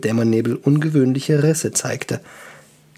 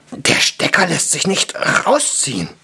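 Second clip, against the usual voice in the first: gruff dwarf, pitch climbing; strained, rough dwarf voice; alarmed dwarf; 4 semitones higher than usual. Acted. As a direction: growl it out with rising alarm. Dwarf discovers he is stuck.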